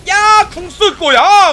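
high, loud, slow battle cry; ultimate call. Real, not acted. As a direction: announce the ult at full voice. 궁극기 쓰며 외침. (높고 크게 천천히 외침)

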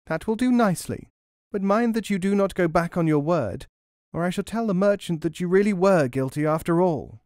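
put-on high, threatening old crone; croaking hag. A narrator's reading. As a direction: warn her slyly. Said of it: "croaked the hag".

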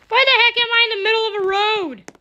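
high, fast bewildered question; confused and alarmed, rushing it; baffled outcry. Real, not acted. Suddenly finds himself on road.

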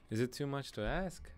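accidental slip into an Irish lilt; Irish accent. Real, not acted. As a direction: slide into an Irish accent, pitch lifting. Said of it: "like, Irish?".

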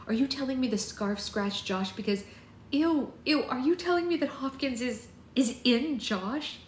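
high, rising revulsion; appalled, climbing disbelief; horrified disgust. A narrator's reading.

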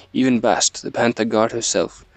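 put-on light, unconvincing African accent; attempted African accent. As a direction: read the line with a rough stab at an African accent. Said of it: "An African accent".

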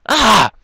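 high "ah!" of exasperation; frustrated cry. Real, not acted. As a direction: cry out at failing. Frustrated by failing again.

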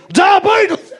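"diabetes" squashed to "dia-beet-us" in a high, loud blurt; high, loud "diabetes" mispronounced as "dia-beetus"; Wilford Brimley. Retold or imitated. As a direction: blast "diabetes" with the last syllable swallowed, as "us". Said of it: "pronouncing the word diabetes".

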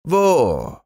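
high, squeaky "Wo?"; a sudden eager bear yelp; Hieronymus the bear. Acted. Bear cousin perks up at honey news, squeaky.

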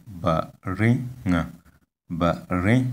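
baringa with pitch lifted on the middle syllable; baringa, careful demo rising on the middle; high second syllable. Shown as a demonstration. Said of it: "the tone is on the second".

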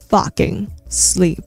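slow soft whisper. Acted. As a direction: hiss it gently under breath. Whispered punchline.

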